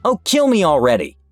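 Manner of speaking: mock hysterical yell; hammed-up raging cry while grabbed; retold scream. Arrested woman yelling at police, mock hysterical. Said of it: "she screamed".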